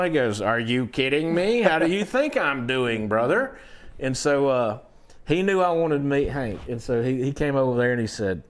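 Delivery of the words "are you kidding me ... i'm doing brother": Merle's voice. Retold or imitated. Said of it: "and he talked like this".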